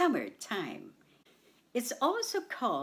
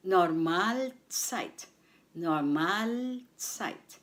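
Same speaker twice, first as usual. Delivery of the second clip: "Normalzeit" said slowly with weight on "mal"; stress on MAL; 3 semitones lower, slower than usual. Shown as a demonstration. Teacher models the word for learners, second syllable stressed. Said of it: "The stress is on the second syllable".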